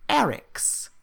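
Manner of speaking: high-pitched kobold struggling with the language; broken Common. Acted. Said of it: "in Common goes".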